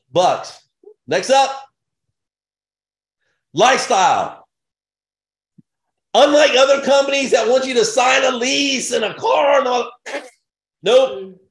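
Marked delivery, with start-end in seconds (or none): 6.1-11.4 shouting. Real, not acted. Hyped pitch against rivals.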